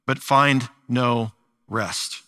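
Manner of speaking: a cry to God that slows and sinks at the end; prayerful psalm reading. Acted. Pastor opening the sermon with a psalm, prayerful lament.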